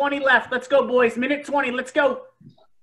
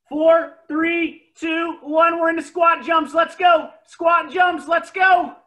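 coach shouting; 3 semitones higher, 4 dB louder, slower than usual. Real, not acted. Coach shouting the next exercise.

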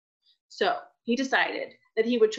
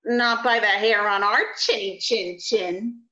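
little pig voice. Acted. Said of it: "said the third little pig".

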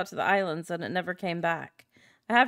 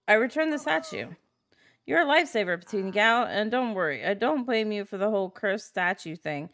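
grateful villager. Acted. Villager thanking the player for returning the statue, bright. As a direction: read the villager's thanks with light cheer.

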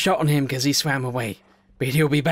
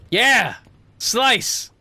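loud, higher yell of attack; battle cry; 9 semitones higher, 4 dB louder than usual. Real, not acted. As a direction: shout it as you swing. Attacks the shark.

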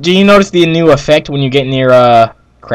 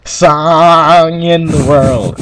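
drawn-out, theatrical demon's demand; big slow proclamation from a story demon, easing down; shiny demon; 3 semitones higher, much slower than usual. Pretend. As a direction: boom it out slowly like a mock demon. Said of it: "there shined a shiny demon".

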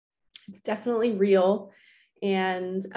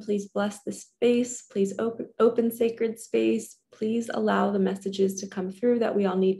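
prayer. Acted. Prays to archangels for blessing.

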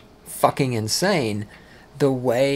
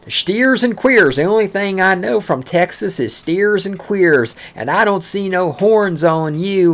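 slow, louder mock Texan taunt, higher pitched; 6 semitones higher, 5 dB louder than usual. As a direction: sneer it the way the locals used to. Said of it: "You know how many times I fucking heard that?".

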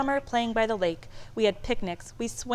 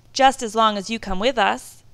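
eager; 2 semitones higher, 7 dB louder than usual. A narrator's reading. Children begging their dad.

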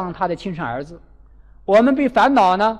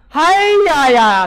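欢喜惊叹; 7 semitones higher, 5 dB louder, slower than usual. Retold or imitated. 老太婆得知后欢喜.

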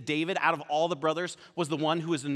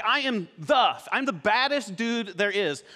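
"the" punched louder in a boast; stress on THE; 2 semitones higher, 3 dB louder than usual. Acted. Champion boasting he's no random guy, stress on THE. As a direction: hit "the" as the one and only. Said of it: "Not like this random guy".

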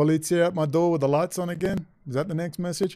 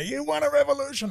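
mocking Akbar; 12 semitones higher, faster than usual. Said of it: "Ali Akbar's down there".

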